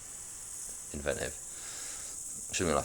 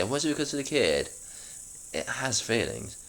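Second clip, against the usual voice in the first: the line again in a high, lifted voice; high-pitched reread of the line; reread much higher; 7 semitones higher than usual. Shown as a demonstration. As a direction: pitch the question way up, then settle. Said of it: "That actually makes sense".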